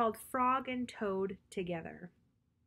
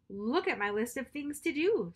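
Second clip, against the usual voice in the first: Toad showing his list; 4 semitones higher, 4 dB louder than usual. Acted. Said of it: "said Toad".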